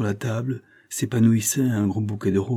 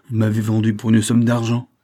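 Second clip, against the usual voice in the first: louder, indignant accusation; accusation indignée; 3 semitones higher, 6 dB louder than usual. Acted. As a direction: throw the betrayal at him, louder. Elle l'accuse de trahison. (accusation indignée, voix forte)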